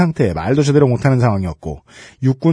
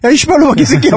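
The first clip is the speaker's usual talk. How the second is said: put-on tongue-tied drunk shouting; drunk slurring; 10 semitones higher than usual. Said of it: "무슨 이상한 글자만 써".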